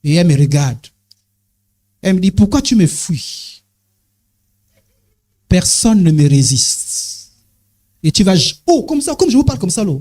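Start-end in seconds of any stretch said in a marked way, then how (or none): 2.3-7.3 slow, low seductive temptress; lightly voiced slow seductress; viper woman voice. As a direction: purr it out like a tempting serpent.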